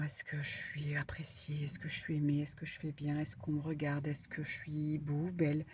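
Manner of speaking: hushed, anxious questions, half whispered; worried inner voice. Retold or imitated. Card reader voicing a worried client's doubts, hushed. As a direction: breathe the doubts softly like a private worry. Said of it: "Alors, j'entends".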